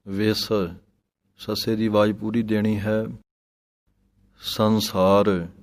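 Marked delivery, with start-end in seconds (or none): 4.4-5.5 ਸੰਸਾਰ with a light tippi nasal, not a full n, slow. Shown as a demonstration. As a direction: say ਸੰਸਾਰ with only a nasal touch. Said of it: "ਟਿੱਪੀ ਦੇ ਨਾਲ ਪੜ੍ਹਨਾ ਹੈ".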